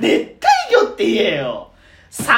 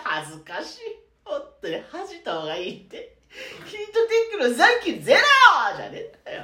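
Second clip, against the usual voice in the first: laughing; 4 semitones higher, 5 dB quieter than usual. Real, not acted. Laughing helplessly at friend.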